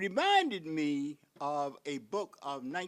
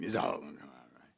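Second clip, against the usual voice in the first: mock reassuring whisper; faster than usual. Mocking the American dream.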